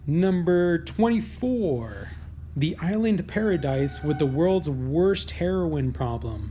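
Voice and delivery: slow, deliberate countdown announcer read; drawn-out headline announcement. Acted. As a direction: announce the entry like a list show host. Reads list headline.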